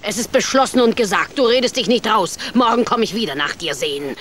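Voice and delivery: loud, fast stern verdict; stern decree. Acted. Witch to Hänsel, loud decree. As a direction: lay it down as final.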